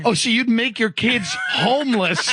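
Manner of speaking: retold appalled challenge, pitched a bit up; incredulous. Colleague challenging a dad's threat, acted incredulity. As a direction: throw it back in mock disbelief. Acts out his appalled reply.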